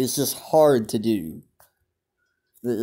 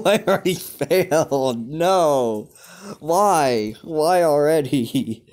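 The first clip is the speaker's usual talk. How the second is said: laughing disbelief; 3 semitones higher, 3 dB louder, slower than usual. Real, not acted. Laughing off failing instantly.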